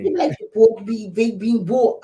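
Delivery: badly faked Boston accent; playful, unsure stab at Boston accent; attempted Boston accent. Shown as a demonstration. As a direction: have a clumsy go at a Boston accent. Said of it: "You don't like the Boston accent?".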